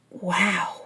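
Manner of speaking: drawn-out, amazed wow; stunned exclamation. Acted. Stunned at the weight carried.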